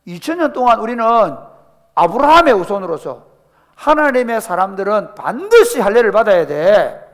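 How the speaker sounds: loud, scandalized outburst, pitch pushed up; indignant circumcision zealot. Retold or imitated. Zealous Jewish believer objecting to uncircumcised salvation, indignant and loud. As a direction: bristle with outrage at the idea. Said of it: "이런 사람이 있습니다".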